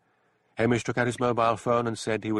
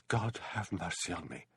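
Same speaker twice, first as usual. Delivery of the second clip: dull voice; 9 dB quieter than usual. A narrator's reading. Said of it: "said in a dull voice".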